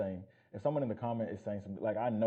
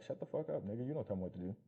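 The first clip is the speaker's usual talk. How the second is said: mock dismissive client; 3 semitones higher than usual. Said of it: "They're like".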